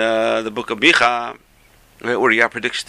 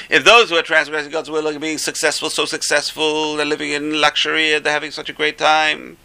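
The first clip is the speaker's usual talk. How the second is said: raised, level chant-like recitation; sing-song reasoning; 5 semitones higher than usual. Retold or imitated. Rabbi argues why he is laughing, chanting sing-song reasoning. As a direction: build the premise on one held higher note.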